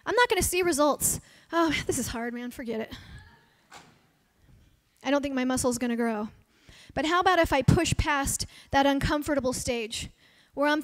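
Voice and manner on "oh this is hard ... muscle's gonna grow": mock-defeated voice fading much lower and softer; giving up. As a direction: sigh it out like someone quitting a workout. Imitating giving up while exercising.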